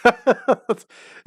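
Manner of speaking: amused, breaking into a laugh at the end; can't stop laughing. Real, not acted. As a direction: talk on the edge of laughter. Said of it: "I can't stop laughing".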